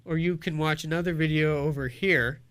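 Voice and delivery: outro read. Acted. Outro for video viewers.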